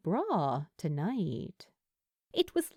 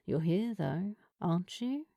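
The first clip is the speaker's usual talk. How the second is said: kindly; 2 semitones lower than usual. Acted. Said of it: "the woman said kindly".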